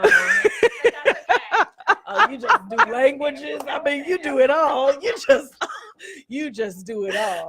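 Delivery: words spilling out through laughter; can't stop laughing while teasing; laughing hard. Real, not acted. Laughing at friend's accent joke.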